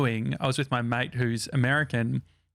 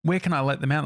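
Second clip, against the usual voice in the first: put-on Australian accent; 3 semitones higher than usual. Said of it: "I just put on my, like, Australian accent".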